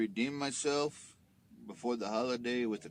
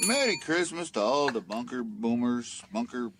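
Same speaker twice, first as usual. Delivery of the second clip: festive shout-out; 7 dB louder than usual. Real, not acted. Loud festive greeting to listeners.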